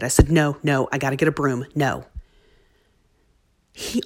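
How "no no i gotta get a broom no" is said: louder, brisk, impatient no; irritated refusal. Retold or imitated. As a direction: brush him off, short on patience. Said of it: "this is while I was irritated".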